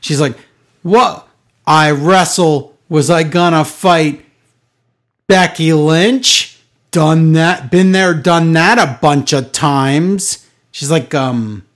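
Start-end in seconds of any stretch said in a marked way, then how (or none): 0.8-10.5 slow, drawn-out mimicry of her promo voice; mocking imitation of a wrestler's halting speech; Charlotte impression. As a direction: stretch every word like a self-important promo. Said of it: "This is how she talks".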